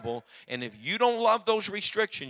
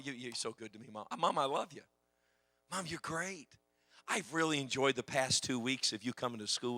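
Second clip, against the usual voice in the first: sweet-talking mom; 3 semitones lower than usual. Retold or imitated. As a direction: coax her gently. Son sweet-talking his mother.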